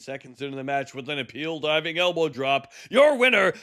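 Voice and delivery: ring announcer. Acted. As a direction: announce the champion to the arena. Announcing the match winner.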